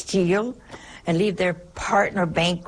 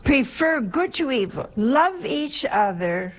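higher-pitched sermon line with "good" stressed; raised preaching; 6 semitones higher than usual. Acted. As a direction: lift it up as the commandment. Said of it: "our dear Lord is telling us here".

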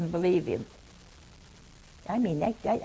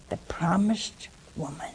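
reverent hush; 3 semitones lower, 4 dB quieter than usual. Real, not acted. Reverent mention of Our Lady.

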